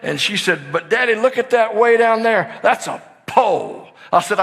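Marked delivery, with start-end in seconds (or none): 0.7-3.9 put-on worried little girl. Daughter's worried voice, retold.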